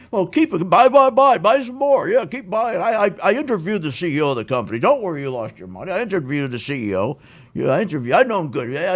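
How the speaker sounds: a hint of a hyped-up market host stammering at the end; mocking a TV stock picker as a moron; Jim Cramer impression. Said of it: "That's how he sounds".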